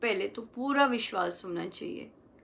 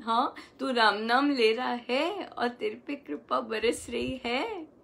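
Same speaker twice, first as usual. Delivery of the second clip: smiling joy. Shown as a demonstration. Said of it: "हमें मुस्कुराना है".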